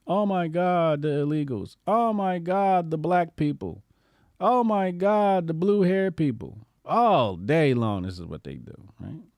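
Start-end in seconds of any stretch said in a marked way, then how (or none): 0.1-6.6 mock hysterical whining. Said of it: "It's pure bitch assness".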